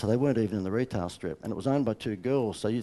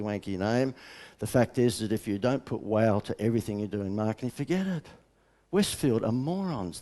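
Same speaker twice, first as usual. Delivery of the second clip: ordinary talk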